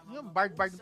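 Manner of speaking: laughing at his own misreading. Real, not acted. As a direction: chuckle through the repeated name.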